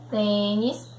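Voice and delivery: "Tênis" with a closed ê in the first syllable; closed vowel. Shown as a demonstration. Teacher reading along with pupils, "Tênis" with closed ê. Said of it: "som fechado".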